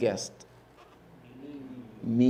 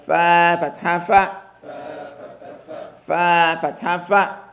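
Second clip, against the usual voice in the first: slow, drawn-out model recitation; teacher drilling slowly; slow spelling drill; slower than usual. Shown as a demonstration. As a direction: spell it slowly for the class to repeat. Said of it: "your answer to me is fa fatha fa".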